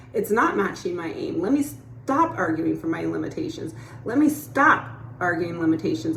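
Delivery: pleased voice that catches its own negative thinking; upbeat self-talk. Retold or imitated. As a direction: cheer yourself on for noticing the thought. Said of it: "No, it's like".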